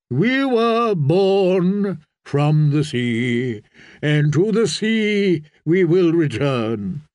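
slow, lightly intoned creed; a prophet solemnly opening his sermon; preaching priest. Acted. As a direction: stretch the words out like liturgy.

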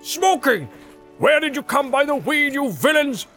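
high, blustering dwarf tirade; Gimli, joyful rage. Acted. Dwarf scolds the feasting hobbits he hunted, high and outraged. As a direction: scold them, bursting with outrage and joy. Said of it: "so torn between rage and joy".

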